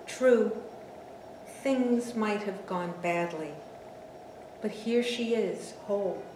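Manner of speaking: measured poem recital with deliberate pauses; poetry reading. Acted. Mother confessing about the daughter she sent into the woods, measured poetry reading. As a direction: let each phrase stand alone, stressing key words. Reads her poem aloud.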